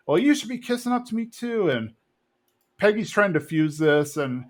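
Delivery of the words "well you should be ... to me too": put-on much higher, huffy old-man demand; indignant Cotton. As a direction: put your son in his place. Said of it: "Cotton's like".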